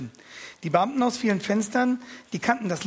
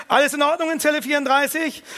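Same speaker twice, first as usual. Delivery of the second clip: loud, higher, barked prison-guard call; gruff bellow; 8 semitones higher, 5 dB louder than usual. Acted. Wachtmeister shouting into the cell with a gruff voice. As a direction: bark it like a gruff warden. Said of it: "brüllt mit barscher Stimme".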